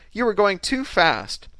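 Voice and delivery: high, loud, slow and emphatic; angry accusation. A narrator's reading. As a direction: spell out the blame, drawn out. Victim accuses the driver.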